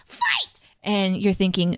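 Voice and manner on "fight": very high shrieked battle cry; child's shriek. Retold or imitated. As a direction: shriek it like a toddler. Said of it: "and shrieks".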